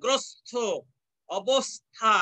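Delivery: গ্রস্ত, অবস্থা split after a clear "s"; gros-to, obos-tha, syllables apart; dental s sound. Shown as a demonstration. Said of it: "এই যে দেখো ত এর সাথে".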